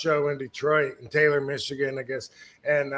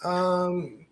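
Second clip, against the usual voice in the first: put-on higher, hesitant kid voice; light childish voice, a touch higher; little kid voice; 6 semitones higher, 4 dB louder, much slower than usual. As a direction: imitate a shy little child. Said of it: "talk like a little kid and go".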